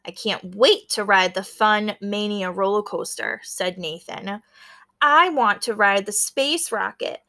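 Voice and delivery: lively read-aloud with small character voices; story narration. A narrator's reading. Teacher reading a picture book to her class, storytelling. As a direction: bring the classmates' lines to life.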